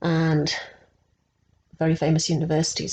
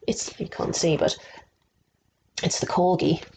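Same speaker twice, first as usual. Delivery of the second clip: hushed secret whisper; 2 semitones lower than usual. Real, not acted. Pointing out the hidden corgi to the child, whispered.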